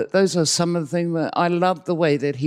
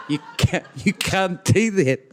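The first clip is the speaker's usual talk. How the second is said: retold protest climbing higher and louder; alarmed protest; 7 semitones higher, 3 dB louder than usual. Co-teacher protesting about the waiting audience, in mock alarm. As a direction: object in rising disbelief.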